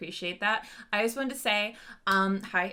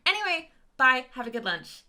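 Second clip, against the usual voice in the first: cheerleader voice; 5 semitones higher, 4 dB louder than usual. Acted. Ending cheerleader announcement.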